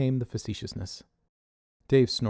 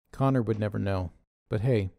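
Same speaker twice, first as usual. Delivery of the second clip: plain reading voice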